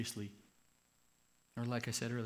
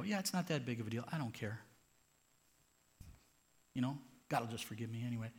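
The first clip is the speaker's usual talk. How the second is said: careless shrug; 4 dB quieter, faster than usual. Acted. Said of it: "if you sit there and go".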